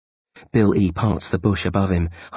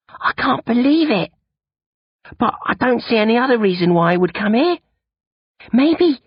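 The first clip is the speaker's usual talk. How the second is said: higher, lightly voiced teen boy; boy's voice; 4 dB louder than usual. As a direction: voice the worried young friend. Bill E voiced.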